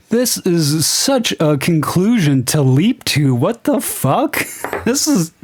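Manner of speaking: high, exasperated disbelief breaking into laughs; real incredulous rant. Real, not acted. Reviewer ranting that she never said engagement, incredulous and laughing. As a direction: argue it in amused outrage.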